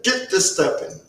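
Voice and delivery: restrained dismissal. Acted. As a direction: send him off without raising the voice. Recruiter repeats the order to leave.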